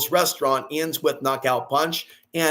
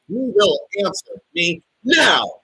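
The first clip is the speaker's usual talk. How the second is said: slow, loud, higher commanding shout; shouting demand; 4 semitones higher, 4 dB louder, slower than usual. Real, not acted. Ranting at doubters online, slow commanding shout.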